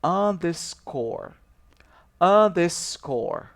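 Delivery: underscore said slowly, syllable by syllable; pronouncing underscore. Shown as a demonstration. Teacher modelling the underscore symbol, slow and clear. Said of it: "você vai pronunciar e dizer".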